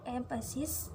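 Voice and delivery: "emphasis" with the stress on its first syllable, EM. Shown as a demonstration. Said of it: "the stress falls on the first syllable".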